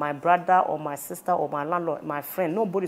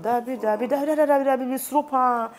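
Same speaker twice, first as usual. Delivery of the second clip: high, rapid repeated no; emphatic denial; 6 semitones higher than usual. Real, not acted. Answering the host about confiding in mother, emphatic denial. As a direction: insist in a much higher voice.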